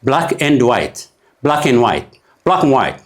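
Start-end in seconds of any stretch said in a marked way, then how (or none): 1.4-3.0 "ብላክ ኤንድ ዋይት" blended fast, "ኤንድ" shrunk to a bare "ን"; reduced and. Shown as a demonstration. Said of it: "ዲ ጥራሕ ዘይኮነ እንኮላ ኤ ጠፊኣ ኣላ". ("ብላክ ኤንድ ዋይት" "ን" ጥራሕ ተሪፋ)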